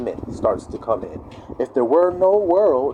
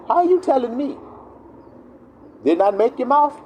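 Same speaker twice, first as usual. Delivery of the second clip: God to Moses; 11 semitones higher than usual. Retold or imitated. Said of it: "Moses, say this".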